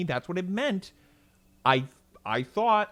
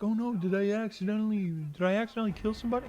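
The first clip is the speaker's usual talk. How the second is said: higher, rushed, hammed-up panic; mock freak-out; 5 semitones higher, much faster than usual. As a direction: fake alarm, gabbling the words. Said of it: "I'm not gonna freak out and be like".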